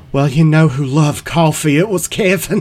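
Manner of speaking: weepy, welling-up voice. Retelling what a man said as his eyes filled with tears: imitating a tearful man.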